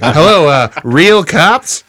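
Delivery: a hint of a halting prank caller; Norm Macdonald.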